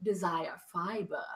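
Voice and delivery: slow, low, solemn elven narration; Galadriel as Cate Blanchett. Acted. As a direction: intone it like a grave ancient prophecy, slowly. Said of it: "do this in my Cate Blanchett Galadriel voice".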